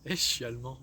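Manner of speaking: low, quiet goofy voice; deep silly voice. Acted. Sketch guy playing France, in a low goofy voice. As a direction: drop low for a dumb puppet line.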